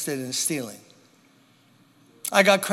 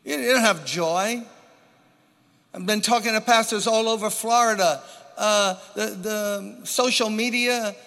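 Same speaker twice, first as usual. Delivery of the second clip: raised-pitch, insistent pulpit delivery; earnest preaching; 5 semitones higher than usual. Real, not acted. Preacher warning a congregation of what is stolen, urgent preaching. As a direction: press the point on the congregation. Preacher builds up his main point.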